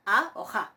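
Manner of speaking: "A" plain, then "ja" aspirated; teacher demonstrating "A o ja" distinctly; contrasting aspiration. Shown as a demonstration. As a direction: set bare "A" against breath-led "ja". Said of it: "eso se pronuncia ja".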